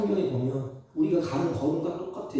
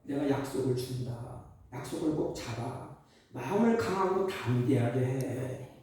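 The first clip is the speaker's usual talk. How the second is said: low, soft fatherly promise; God speaking gently; 7 semitones lower, 3 dB quieter than usual. Acted. God promising his people, low soft reassurance. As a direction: lower your voice and reassure like a father. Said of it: "하나님은 수백 번, 수천 번 얘기합니다".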